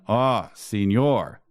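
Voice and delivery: slow, drawn-out scornful Spanish greeting; disdainful. Acted. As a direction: look down on him as you say it. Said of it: "said the robot pimp disdainfully".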